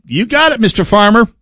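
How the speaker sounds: high, eager, fawning fox voice; sly fox. Retold or imitated. Fox assuring the farmer it will guard the hens, high and fawning. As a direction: play the sly fox, all sweet promises. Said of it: "And the fox said".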